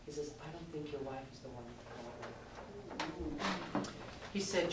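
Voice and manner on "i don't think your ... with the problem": soft, slow, gentle correction; quiet grandfatherly counsel, unhurried; calm and kind. Retold or imitated. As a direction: break it to him slowly and kindly. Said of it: "very calmly, very kindly".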